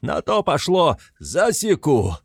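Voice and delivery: high loud threat; furious shout. A narrator's reading. Mikolka threatening the mare, high loud yell. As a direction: spit out the threat.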